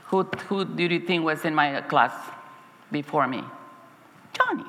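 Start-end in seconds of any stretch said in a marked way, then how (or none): 4.3-4.7 high, bright reveal of the name; spring the happy surprise; retold joyful gasp of a name; delighted surprise. Surprise finding boy in class.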